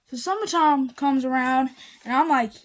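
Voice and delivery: slipped into a Southern accent; real Southern US accent. Real, not acted. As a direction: let a Southern twang slip out. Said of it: "sorry, my southern accent slipped".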